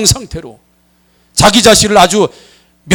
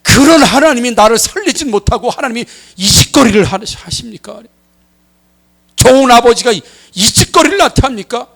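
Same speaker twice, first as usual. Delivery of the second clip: indignant protest; 5 semitones higher than usual. Retold or imitated. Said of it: "육체적인 고통을 호소하면서".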